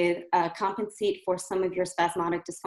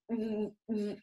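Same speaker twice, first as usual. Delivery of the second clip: softer, tight pushed hums; 9 dB quieter than usual. Shown as a demonstration. Coach showing a pushed hum to avoid. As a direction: squeeze the hum from the throat. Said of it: "So if you are pushing".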